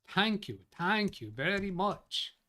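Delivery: a lightly done, slowed Ed Sullivan thank-you; Ed Sullivan impression. Thanking chat in a bad Ed Sullivan voice. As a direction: drag out the thanks like a clumsy TV host. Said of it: "That was the worst impression of Ed Sullivan".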